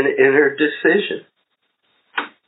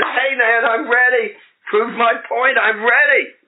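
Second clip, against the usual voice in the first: high, eager and pleading; 8 semitones higher than usual. Retold or imitated. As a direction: push it like an impatient husband. Eager husband pleading with wife.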